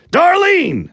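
long high yell of her name; calling out. Acted. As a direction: holler the name into the house. Husband calls wife from door.

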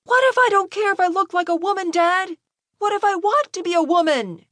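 high, impassioned scream; screaming at his father. A narrator's reading. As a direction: lose your cool completely with your father. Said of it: "was screaming at his father".

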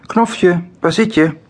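hoge zoekende roep; roepend. A narrator's reading. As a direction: roep hoog naar je verstopte kind. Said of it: "roept moeder". (hoog roepende moeder)

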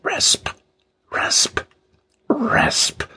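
hushed "rasp", beat by beat; whispered rasping noise. A narrator's reading. Sound goes on as King finds no gun, whispered rasping. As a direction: whisper it like sawing on wood. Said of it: "yet rasping".

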